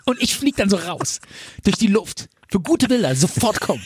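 hammed-up caller tipping off the press; mock caller. Mock call to the fire brigade. (aufgedrehter Anrufer, der die Presse lockt)

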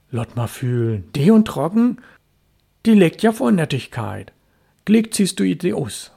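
a mother fussing over wet socks; mother scolding. Acted. Mother checking her son's socks, lightly voiced fussing.

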